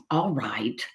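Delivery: low, soft resigned piglet; sighing. Acted. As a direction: sigh it out in weary surrender. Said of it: "sighed the piglet".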